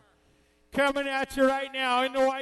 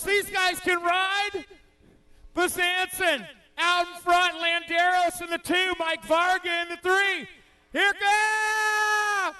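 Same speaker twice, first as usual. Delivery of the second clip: high, shouted race call; excited play-by-play; 3 semitones higher than usual. Real, not acted. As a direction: call the race at full tilt.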